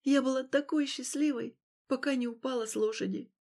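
plain reading voice

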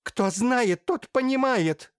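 громкий высокий крик, с протяжкой; выкрикни в лицо, брызгая слюной. Acted. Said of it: "развернулась и закричала". (блаженная кричит на Матвея, громко и высоко)

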